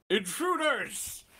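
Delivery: booming demon, drawn out slow; deep demonic voice. Acted. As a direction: roar it like a demon from the pit. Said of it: "The demon in very, uh, deep demonic voice".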